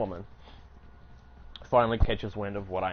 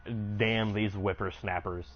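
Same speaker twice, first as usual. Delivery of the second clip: put-on grumpy old lady; slower than usual. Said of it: "old lady set in their ways".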